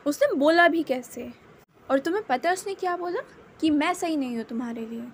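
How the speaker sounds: a touch of anger, rushing toward the end; indignant, pitch climbing then hurried; angry rant. Acted. Wing venting to Wangji about the insult, mildly angry. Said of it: "विंग गुस्से में कहता है".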